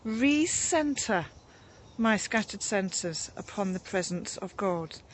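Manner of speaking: drawn out, soft prayer words; slow prayerful reading. Retold or imitated. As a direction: read it slowly like a prayer. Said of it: "it uses the words".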